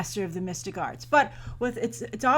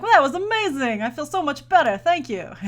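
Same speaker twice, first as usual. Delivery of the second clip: mock amazed relief; 6 semitones higher, 7 dB louder than usual. Character voiced after Everest trip.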